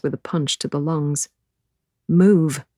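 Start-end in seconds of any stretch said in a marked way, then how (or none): 2.1-2.6 a sharp, louder order to herself; firm self-command. Acted. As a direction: bark it at yourself to get moving. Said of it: "I order myself".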